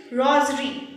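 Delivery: rosary with a Z sound for the S; British-style "rosary", S spoken as Z; careful British rosary. Shown as a demonstration. Teacher asks viewers to listen, careful British rosary. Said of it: "listen carefully".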